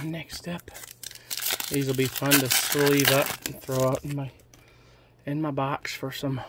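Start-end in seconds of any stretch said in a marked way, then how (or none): 0.0-0.7 whispered next up. Real, not acted. Same phrase whispered, later plain.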